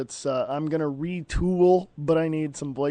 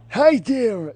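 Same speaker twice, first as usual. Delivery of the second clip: put-on higher take of the old man greeting; Mort from Family Guy voice, higher; 7 semitones higher, 4 dB louder than usual. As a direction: pitch the old man up a notch. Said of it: "You sound like Mort from Family Guy".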